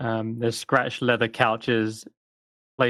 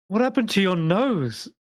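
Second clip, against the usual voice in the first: high, startled disbelief; shocked friend; 9 semitones higher than usual. Acted. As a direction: gasp it out in amazement. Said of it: "you just hear him say".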